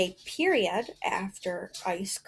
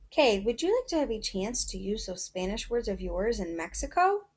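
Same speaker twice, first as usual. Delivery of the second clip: whispered mom line. Acted. Teacher reading the mother's question in a hushed whisper. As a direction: whisper it like a secret surprise.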